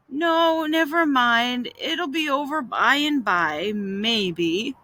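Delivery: drawn-out brave sufferer; feigned suffering. Acted. Boy faking illness for his brother, long-suffering. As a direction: play up the stoic invalid.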